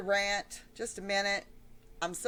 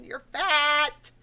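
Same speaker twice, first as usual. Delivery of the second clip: higher, louder upset scolding; upset outburst; 6 semitones higher, 5 dB louder than usual. Real, not acted. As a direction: let her have it out of real frustration. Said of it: "I'm very excited and very upset".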